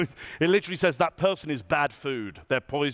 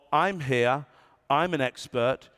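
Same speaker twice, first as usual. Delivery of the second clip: slower, open posture version; open, slower take. Shown as a demonstration. Speaker demos expert line with open palms, slower. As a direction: open up and slow down. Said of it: "your preference is for this one".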